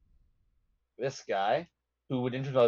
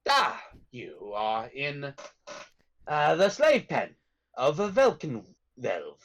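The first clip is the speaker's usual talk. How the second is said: put-on slow, drawn-out British accent; 3 semitones lower, slower than usual. Prisoner telling a newcomer where they are, slow British accent. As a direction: take your time, in a British accent. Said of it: "British accent".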